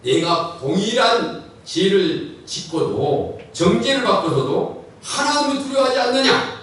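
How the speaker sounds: preacher acting out a scolding, rising in pitch; retold rebuke. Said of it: "꾸짖었습니다". (꾸짖는 말투로 재연)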